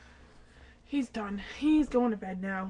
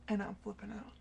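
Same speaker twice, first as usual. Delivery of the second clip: scared whisper; 3 semitones lower, 8 dB quieter than usual. Real, not acted. Scared alone at 3 am.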